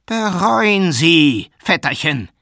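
slow, high, loud cry of repentance; impassioned exhortation. A narrator's reading. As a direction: cry out like a fervent preacher. Matvei cries out for repentance. (flehend und laut ausrufen)

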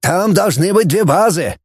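shout. Acted. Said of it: "крикнул Вайнштейн".

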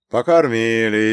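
slow, contented reply; satisfied. Acted. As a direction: draw it out, pleased. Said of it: "довольно произнёс Прокоп".

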